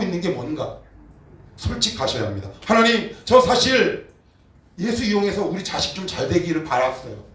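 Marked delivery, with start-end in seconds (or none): 2.6-7.2 high, loud, pleading cry to God; anguished confession. Pretend. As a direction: pour out a desperate confession. Acted confession prayer to God. (높고 크게 절박하게 고백하는 기도)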